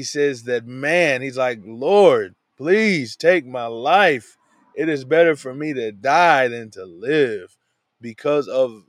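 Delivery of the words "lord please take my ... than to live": loud, slow begging prayer to be let die; mock anguished cry for death; desperate plea. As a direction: plead with God as if worn out by heat.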